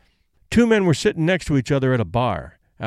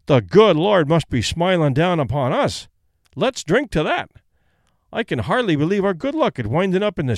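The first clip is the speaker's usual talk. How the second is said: exclaiming; 4 semitones higher than usual. Acted.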